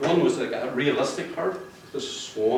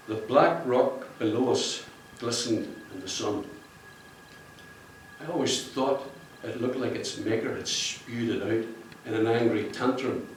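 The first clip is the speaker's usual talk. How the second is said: reading aloud; 4 dB quieter than usual. Shown as a demonstration. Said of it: "Let me just read you".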